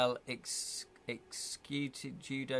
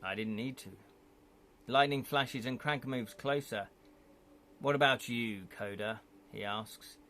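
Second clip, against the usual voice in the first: game master narration. A narrator's reading. Game master reading the scene to the players, storytelling voice. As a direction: set the scene for the players, even-paced.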